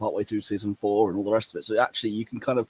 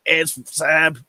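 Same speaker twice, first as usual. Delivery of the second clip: higher, louder fan cheer; excited fans; 6 semitones higher, 6 dB louder than usual. Retold or imitated. Rebels fans seeing Zeb appear, loud mock excitement. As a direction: exclaim it like a fan spotting a favourite. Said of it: "Rebels fans like".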